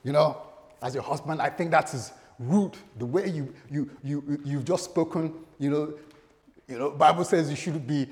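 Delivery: indignant husband laying down the law; mock stern husband. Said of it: "I just said".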